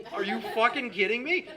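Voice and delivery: loud, high, cracking up in disbelief; can't believe it, laughing out loud. Retold or imitated. Son at Thanksgiving table hearing key lime pie, laughing in disbelief.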